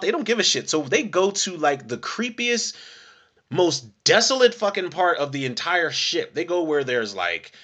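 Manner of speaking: usual speaking voice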